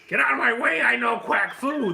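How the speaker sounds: high, loud cartoon duck voice; Gilbert Gottfried. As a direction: squawk it out like an abrasive comic duck. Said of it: "if Gilbert Gottfried played the duck".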